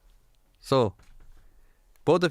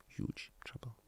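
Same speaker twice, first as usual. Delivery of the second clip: whispered echo; 17 dB quieter, slower than usual. Real, not acted. Preacher whispering a warning to married couples. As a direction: whisper it, ominous.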